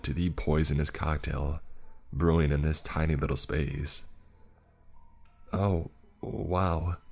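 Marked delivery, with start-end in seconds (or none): 5.5-7.0 squeaked. Acted. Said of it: "he squeaked".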